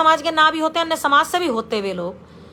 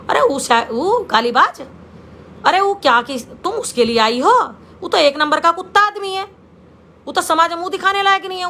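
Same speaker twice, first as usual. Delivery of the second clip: retold indignant outburst, pitch climbing; indignant elders; 4 semitones higher than usual. Elders object to her coming for Shrikant, indignant. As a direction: act out the elders' disgusted protest.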